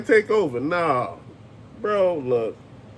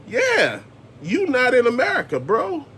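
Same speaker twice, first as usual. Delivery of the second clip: mocking high voice; 6 semitones higher than usual. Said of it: "The police was like".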